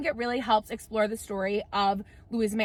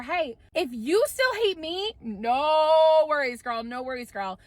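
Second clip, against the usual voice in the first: imitating suitor; 4 semitones higher, 3 dB louder, slower than usual. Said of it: "he still says to her".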